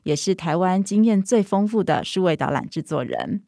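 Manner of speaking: ordinary delivery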